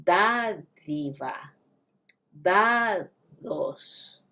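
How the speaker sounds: "Dádiva, dados" with a soft th in the middle; "Dádiva, dados" mein halki th jaisi d. Shown as a demonstration. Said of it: "slight T H sound".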